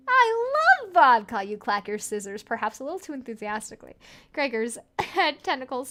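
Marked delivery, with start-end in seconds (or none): 0.1-1.4 higher, louder, hammed-up Russian accent; mock Russian accent. Player echoing Gregor in a much higher, louder mock Russian accent. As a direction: belt it out like a cartoon Russian.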